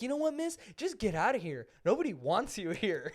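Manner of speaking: lightly acted indignant dismissal; imitated telling-off. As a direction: imitate a woman sending someone packing, starting high. Retold younger woman telling customer off.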